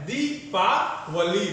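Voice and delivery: दीपावली slowly, in separate parts; slow, spaced-out teaching of दीपावली; syllable-by-syllable दीपावली. Shown as a demonstration. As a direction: break दीपावली up for the class. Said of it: "दीपावली गलत होगा".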